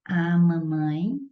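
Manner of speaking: word by word, long pauses between; slow dictation. Shown as a demonstration. Teacher writing out an example sentence, slow dictation. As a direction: dictate it slowly in small chunks.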